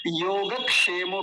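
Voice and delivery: योगक्षेमो with k sounded in क्ष; correct pronunciation. Shown as a demonstration. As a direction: say yo-ga-kshemo with a clear k. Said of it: "क्योंकि क भी है". (योगक्षेमो में क की आवाज़ के साथ)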